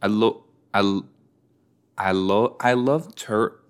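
halting stab at an Australian accent; attempted Australian accent. Shown as a demonstration. Viewer practising a turtle line, halting Australian accent. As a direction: keep restarting in a shaky Australian accent. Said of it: "I'm trying to do an Australian".

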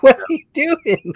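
high-pitched, laughing mock challenge; mock disapproval. Onlookers judging how you talk to a kid, mock disapproval. Imagined onlookers reacting to the speaker.

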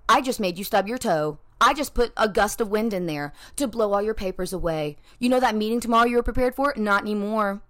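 the day taunting. Pretend. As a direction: gloat like the day itself is out to get you. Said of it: "the day would be like".

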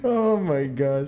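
slow mimicry with long drawn-out words; imitating slapped guy. Echoing the friend's copy of the slapped guy, drawn-out imitation. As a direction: mimic him, stretching every word. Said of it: "the guy that getting slapped and then going".

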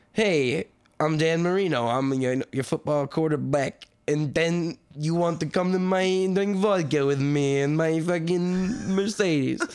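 thick put-on foreign accent, dragging at the end; muddled mock foreign accent, words stretched out; Dan Marino. Podcaster mocking the quarterback's ad, thick put-on accent. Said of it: "and he's like".

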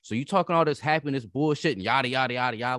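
mock-defiant hustler who can't afford dreams; devil's advocate rant. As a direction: push back hard, playing the other side on purpose. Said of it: "trying to play devil's advocate".

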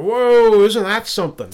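loud, high "whoa" of realization; wowed, retelling your own reaction; impressed amazement. Retold or imitated. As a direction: recall being struck by a revelation, voice leaping up. Acted amazed thought on hearing advice.

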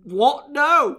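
loud, high-pitched incredulous outburst; scandalised yelp of protest; appalled disbelief. Acted. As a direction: cry out in mock horror, voice leaping up. Acted outraged reaction to film plot.

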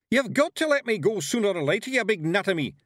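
loud, high Scottish yell; Scottish shout. A narrator's reading. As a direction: bellow it like a tiny angry Highlander. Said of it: "yelled Rob Anybody".

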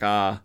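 "Ah" as an open Southern vowel with no glide. Shown as a demonstration. Narrator showing Jonah's pronunciation, "Ah" with no glide. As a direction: say "Ah" for the word I, Southern style. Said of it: "Instead of I, it's".

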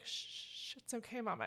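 a soft shushing comfort; child comforting her mother, softly hushed; soothing hush. Retold or imitated. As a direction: gently hush a crying parent. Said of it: "she was just like".

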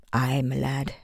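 a gentle Scottish lilt; soft Scottish brogue. Acted. Father easing up on his son, soft Scottish brogue. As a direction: soften into your Scottish brogue. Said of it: "His Scottish brogue came out when he spoke softly".

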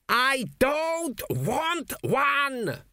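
high, slow, strained ghostly scream; the dead king screaming his refusal. A narrator's reading. Dead king screams at his son, high and slow. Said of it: "screamed the king".

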